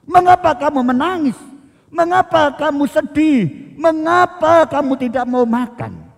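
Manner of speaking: mock husband scolding his grieving wife; blaming. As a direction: fire off the whys like accusations. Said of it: "Elkana menyalahkan Hana".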